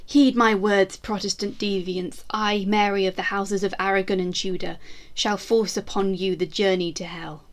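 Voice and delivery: a proud Tudor queen vowing vengeance, grand and measured; defiant queen's proclamation. Acted. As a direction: declaim it like a queen swearing she shall not fall. Queen threatening Protestants, caption read.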